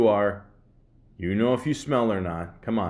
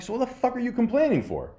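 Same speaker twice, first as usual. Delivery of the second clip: retold angry retort; 11 semitones higher than usual. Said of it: "I'm like".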